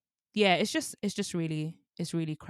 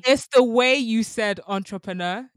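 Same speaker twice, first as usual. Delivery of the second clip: high, loud laughing protest; excited protest; 4 semitones higher, 10 dB louder than usual. Real, not acted. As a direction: protest loudly through laughter.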